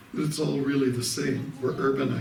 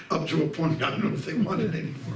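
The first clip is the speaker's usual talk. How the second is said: chuckling; 5 semitones higher, faster than usual. Real, not acted. Joking about Michigan taking garbage.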